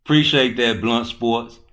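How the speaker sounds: loud thanks. Real, not acted. Streamer thanking Blunt Sports in chat, loud and hyped. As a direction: call out the thanks with energy.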